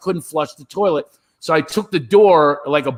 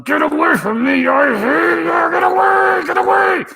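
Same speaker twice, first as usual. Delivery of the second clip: much higher, louder screaming get away; mock labor scream; 5 dB louder than usual. Wife in labor screaming at her husband, high and loud. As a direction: shriek it at him like a woman in labor.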